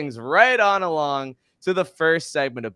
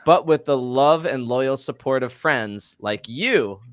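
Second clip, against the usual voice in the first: The speaker's robot voice; 3 dB louder than usual. Acted. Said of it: "my A I wellness robot voice".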